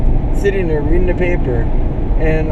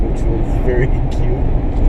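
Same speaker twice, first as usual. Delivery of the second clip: laughing slip; 2 semitones lower, slower than usual. Real, not acted. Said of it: "not very cute, very nice".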